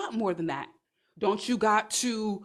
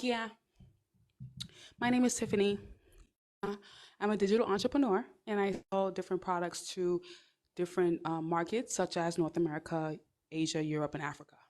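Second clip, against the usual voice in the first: lightly voiced calm professional, softer toward the end; demo confident introduction; 5 dB quieter than usual. Shown as a demonstration. Showing viewers how to introduce herself, lightly voiced calm confidence. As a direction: say it evenly and assured. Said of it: "so you're like".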